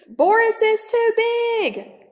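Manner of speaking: high, squeaky mouse voice crying out; little mouse crying out in alarm. Acted. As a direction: squeak it like a tiny scared mouse. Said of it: "cried one little mouse".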